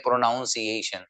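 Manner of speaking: प्रोनाउंसिएशन with full "nown" sound; wrong pronunciation. Shown as a demonstration. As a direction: says प्रोनाउंसिएशन the wrong way on purpose. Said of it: "प्रोनाउंसिएशन नहीं है". (गलत उच्चारण प्रोनाउंसिएशन)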